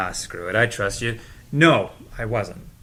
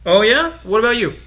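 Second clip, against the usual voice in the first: surprised perk-up; 9 semitones higher, 9 dB louder than usual. Acted. Teased about voting, perks up.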